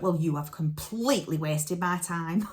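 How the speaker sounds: imitating an indignant scolding; mock ticking-off; telling someone off. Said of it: "Proper told me off".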